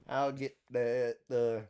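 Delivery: slow redneck drawl; mock redneck accent, drawn out. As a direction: stretch it out like a redneck ordering. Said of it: "like, a redneck voice".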